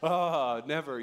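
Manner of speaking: lightly chuckled disbelief, imitating an older man; imitated chuckle. Eighty-four-year-old volunteer answering the pastor, imitated chuckle. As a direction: mimic someone chuckling the idea away. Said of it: "starts chuckling like".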